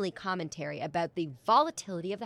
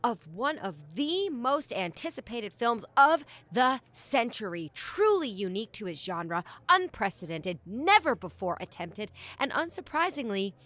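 lightly hyped showbiz reporter voice; gushing red carpet chatter. Acted. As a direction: gush about the premiere. Red carpet host gushes.

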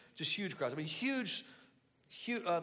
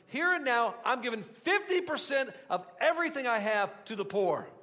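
higher, emphatic acted-out vow; excited pledge; 4 semitones higher, 3 dB louder than usual. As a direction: proclaim it like a sudden convert. Acting out Zacchaeus's startling pledge.

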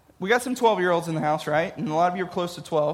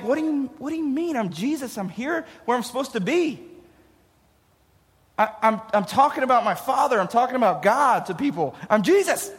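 lightly voiced puzzled protest, higher at first; mildly indignant boy; 3 semitones higher than usual. Boy Jesus protests to parents.

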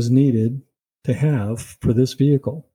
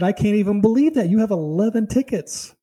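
salesman's pitch pushed much higher, not louder; rude salesman, mock loud; 9 semitones higher than usual. Salesman blurting out the tickets, high-pitched mock outburst. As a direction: act out his disbelief in a high, raised voice. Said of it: "very loudly".

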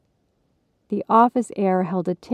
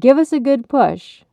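raised, loud delivery-room coaching; doctor urging; 6 semitones higher, 7 dB louder than usual. A narrator's reading. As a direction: urge the mother to push, high and loud.

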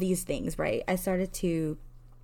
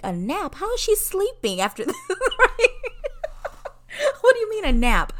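incredulous laughing; 7 dB louder than usual. Real, not acted. Incredulous that daughter is napping.

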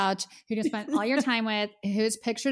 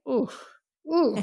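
impressed ooh; 4 semitones higher than usual. Retold or imitated. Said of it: "I was like".

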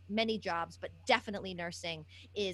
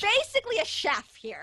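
laughing joke; 11 semitones higher, 7 dB louder than usual. Real, not acted.

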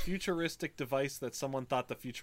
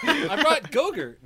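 laughing; 12 semitones higher, 8 dB louder, much slower than usual. Real, not acted. Joking answer through laughter.

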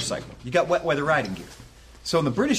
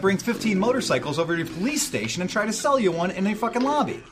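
higher, heated rant aimed at an imagined cop; mock rant at a cop; 7 semitones higher than usual. Ex-cop telling off a pushy officer, heated and high. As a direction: tell off the cop, worked up and high.

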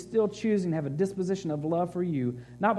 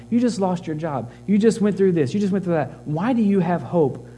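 preaching at full force. Acted. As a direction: preach it hard to the room.

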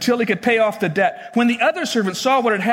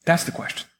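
"That's the question" whispered, softer; whispered emphasis; 4 semitones lower, 4 dB quieter, faster than usual. Acted. Pastor whispering the key point to the congregation. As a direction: breathe it to the congregation.

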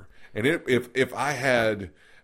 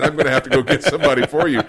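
laughing through quote; 2 semitones higher, 9 dB louder, faster than usual. Real, not acted. Retelling the punchline, laughing.

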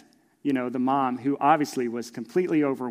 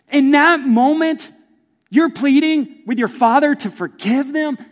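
much louder, higher impassioned preaching; full-force preaching; 11 semitones higher, 11 dB louder than usual. Real, not acted. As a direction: lift it up and plead with the crowd.

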